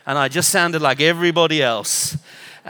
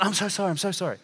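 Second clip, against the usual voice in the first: bumbling apology; 4 semitones higher, much faster than usual. Retold or imitated. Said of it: "bumbling an apology".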